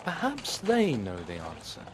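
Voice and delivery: knight voice. A narrator's reading. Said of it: "he thought".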